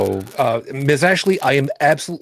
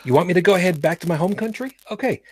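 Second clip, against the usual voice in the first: slightly raised Brooklyn retort; mock Brooklyn; 5 semitones higher than usual. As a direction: play up a touch of Brooklyn attitude. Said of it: "Uh, Brooklyn".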